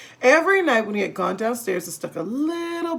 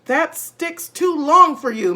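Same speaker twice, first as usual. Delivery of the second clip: slow, higher, louder sly jab; mock-concerned Mr Twit; 7 semitones higher, 6 dB louder than usual. A narrator's reading. Husband slyly teasing his wife, mock concern. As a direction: needle her with fake concern.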